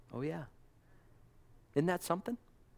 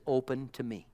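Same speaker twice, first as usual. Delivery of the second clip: sweetly. Retold or imitated. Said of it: "He says it so sweetly".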